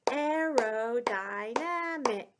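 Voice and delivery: Aerodynamic said slow and even, syllable by syllable, falling at the end; model for repeating. Shown as a demonstration. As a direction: lead the class through Aerodynamic, falling finish. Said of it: "Say it with me".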